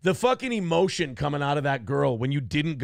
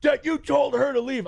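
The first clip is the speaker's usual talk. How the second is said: higher, put-on voice for Nick; mocking Nick; 10 semitones higher, 3 dB louder than usual. Retelling friend Nick demanding a confession, mocking high voice. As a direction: sneer it like the accusing friend. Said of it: "He goes".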